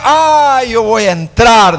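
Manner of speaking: high proud boast. Acted. Singer boasts he will enter the palace, high and proud. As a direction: brag that you'll get in.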